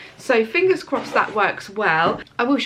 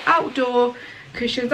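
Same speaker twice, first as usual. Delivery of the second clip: ordinary talk, nothing marked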